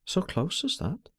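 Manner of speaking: quiet, slow, bitter despair; girl's anger kept to a slow, subdued tone; subdued angry despair. A narrator's reading. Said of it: "anger and despair in subdued tones".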